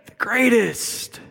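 drawn-out, superior put-down; haughty dismissive disciple; condescending. Acted. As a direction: talk down to them with a sigh. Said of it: "in this condescending tone".

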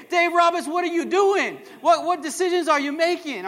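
exasperated fan yelling at the manager; mock angry fan. Pastor playing a fed-up fan yelling at the TV, exasperated. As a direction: shout it at the TV screen. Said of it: "throw my shoe at the T V and say".

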